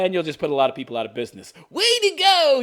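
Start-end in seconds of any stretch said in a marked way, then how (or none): 1.7-2.6 very high, loud mock congratulations; sarcastic cheer. Commentator congratulating the council on closing businesses, sarcastic cheer.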